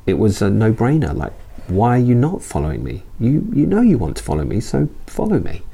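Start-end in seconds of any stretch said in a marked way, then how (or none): 1.7-5.6 higher, playful, knowing coax; knowing invitation. Retold or imitated. Jesus urging Matthew who secretly wants to follow, higher playful coax. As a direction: tease him as if he already wants to come. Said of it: "the tone or the intonation of that".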